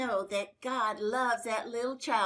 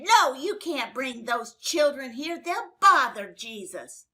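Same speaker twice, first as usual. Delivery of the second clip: louder stern rebuke, slowing on the last words; scolding disciples; 6 dB louder than usual. Acted. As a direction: shoo the parents away sternly.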